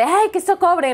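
high-pitched imitation of a ranting man; mock angry shouting. Angry locksmith rants about his price, mock shouting. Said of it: "se enojó y empezó a gritar de".

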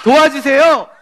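emphatic calls with space for echo; call-and-repeat prayer. Shown as a demonstration. Teacher leading children in calling to God, emphatic pleading. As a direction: lead children phrase by phrase. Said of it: "한번 다 같이 따라해 볼까요?".

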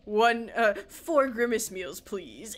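a hint of a slow, low seductive drive-thru order; lightly mock a seductive order; sexy voice. Friend ordering at a drive-thru, in a lightly mocked seductive voice. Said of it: "in that, like, sexy voice that he has".

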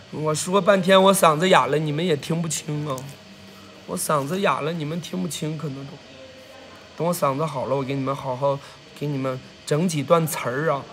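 low, softened voice gone husky; real hoarseness after talking at length; hoarse. Real, not acted. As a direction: talk quietly on a tired, hoarse throat.

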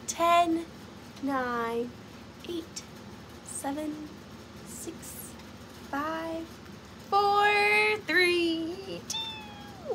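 drawn-out numbers rising to a tiny squeak; climbing countdown. Pretend.

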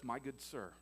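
lightly voiced overly polite parrot; a hint of a prim, formal bird begging pardon. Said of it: "The bird looks at him and says".

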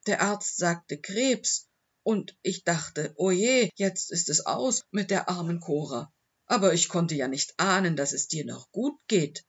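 lightly voiced contrite man, pleading his case; Hubert, contrite and defensive. Owner excusing himself to his dog, mildly pleading. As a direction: plead your innocence with mild, emphatic dismay.

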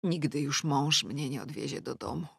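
ordinary delivery, nothing marked

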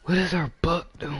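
exasperated. Real, not acted. Teammate misplays.

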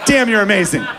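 mock adoring fan, laughing; laughing fanboy gush. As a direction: gush through laughter at your hero. Gushing at Jordan, laughing.

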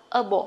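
able said as uh-bl, light schwa then dark l; the ending able with a weak first vowel; ending able as two syllables. Shown as a demonstration. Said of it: "mình không đọc là able hay là able".

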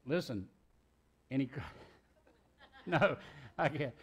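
breaking into laughter mid-sermon; can't get through it for laughing; laughing to himself. Real, not acted. Pastor cracking himself up at a joke he won't tell, laughing.

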